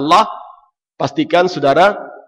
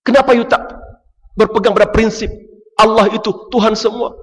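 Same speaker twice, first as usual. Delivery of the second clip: rousing challenge; 8 semitones higher, faster than usual. Retold or imitated. Preacher challenging his neighbour, raised and insistent. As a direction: press the neighbour with bold questions. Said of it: "Ah, kata".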